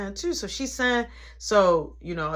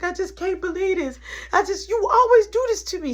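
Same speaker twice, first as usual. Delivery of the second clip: tone 1; 10 semitones higher, 5 dB louder than usual. Retold or imitated. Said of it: "Tracy was crying".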